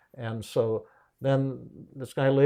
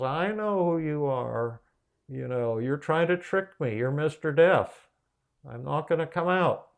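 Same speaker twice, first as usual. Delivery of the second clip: raised pitch, stretched opening, firm refusal; defiant refusal; 4 semitones higher than usual. Retold or imitated. Old woman refuses to open up to Mister Death, lightly acted defiance. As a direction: act out a wary woman standing her ground.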